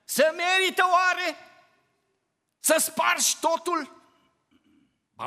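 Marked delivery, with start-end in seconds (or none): 0.0-4.0 much higher, incredulous question; indignant rhetorical question. Real, not acted. Preacher challenging the congregation, incredulous. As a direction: challenge them, disbelieving. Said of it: "rhetorical question to congregation".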